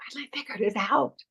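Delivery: confiding, quiet delivery. Asking someone how they'd deliver the line, then saying it like a secret. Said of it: "Or are you going to say it like a secret?".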